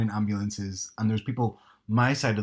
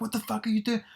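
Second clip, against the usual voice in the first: a hint of a raging driver, higher; mock angry driver; 12 semitones higher than usual. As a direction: shout at the old man, half-acted. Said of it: "It sounded like you, really".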